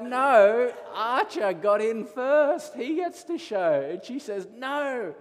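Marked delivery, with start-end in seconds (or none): 0.0-3.9 loud, raised-pitch refusal; acted-out parental ruling, high and forceful; retold firm dad. Father retells refusing his daughter. 4.5-5.1 high, drawn-out whine; mock child's yelling. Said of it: "yelling and screaming".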